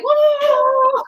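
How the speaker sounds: playful high dinosaur call; dinosaur impression. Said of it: "that's my dinosaur impression".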